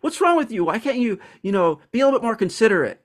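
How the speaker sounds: imitating her own annoyed reaction; mock indignant. To the outspoken person, high mock indignation. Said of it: "I'd be like".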